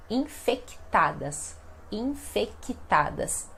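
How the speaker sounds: infectadas with the c said as a k, in-fek-i-tadas, slow; voiced c. Shown as a demonstration. Teacher showing the pronounced consonant, slow careful infectadas. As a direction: say infectadas slowly, sounding the k. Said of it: "vejamos esta pronúncia".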